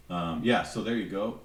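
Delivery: faint, distant voice off mic. Real, not acted. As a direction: still away from the microphone. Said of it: "sorry, I'm off mic".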